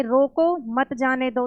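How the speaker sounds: "रोको", short break, then "मत जाने दो" as one phrase; pause after रोको. Shown as a demonstration. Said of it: "full stop दे दिया".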